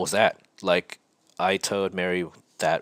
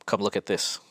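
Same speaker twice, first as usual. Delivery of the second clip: whispered call. Retold or imitated. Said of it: "Mary calls out to me".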